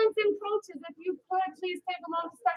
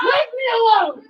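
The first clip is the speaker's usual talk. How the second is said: slow shouted warning, louder; confident self-defense yell; loud and firm; 5 semitones higher, 8 dB louder than usual. Shown as a demonstration. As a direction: shout it to make the bully back off. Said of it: "nice and loud with me".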